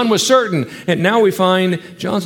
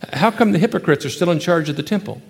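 normal talking voice

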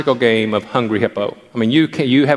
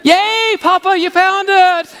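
put-on excited little boy; much slower than usual. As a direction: squeal like a three-year-old cheering Grandpa. Grandson cheering grandpa.

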